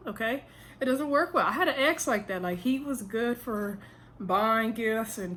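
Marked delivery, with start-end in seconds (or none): 0.8-1.5 "It doesn't work well" said higher, "well" falling hard; higher firmer repeat. Shown as a demonstration. Advising men watching, higher emphatic repeat.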